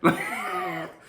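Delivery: high, loud burst of laughter; sudden high giggling fit; cracking up. Real, not acted. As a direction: laugh hard at your own impression. Cracks up at the impression.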